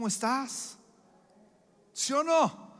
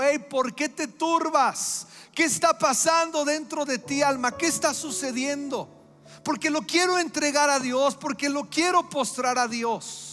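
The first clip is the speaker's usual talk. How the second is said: earnest pleading to his soul; 4 semitones higher, 3 dB louder than usual. Retold or imitated. David questions his troubled soul, louder and urgent. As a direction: press your own soul for an answer. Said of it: "David se hizo una pregunta y dijo".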